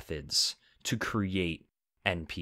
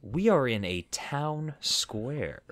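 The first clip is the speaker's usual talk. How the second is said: game master scene setting; 3 semitones higher, much slower than usual. Acted. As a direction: draw them slowly into the town square. GM sets the scene.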